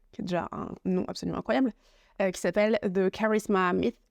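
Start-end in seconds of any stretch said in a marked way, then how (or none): 2.8-4.0 title said with a playful English accent; lightly put-on English accent on the book title; mock English accent. Shown as a demonstration. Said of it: "avec un accent anglais absolument merveilleux". (accent anglais un peu joué)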